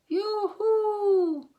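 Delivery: high, loud laughing yoo-hoo; cheery call. A narrator's reading. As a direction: hail them gaily from the bank. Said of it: "she shouted".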